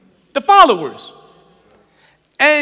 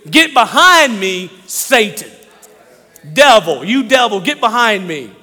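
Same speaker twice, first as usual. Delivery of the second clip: stern rebuke; 3 dB louder than usual. Acted. Jesus rebukes Peter.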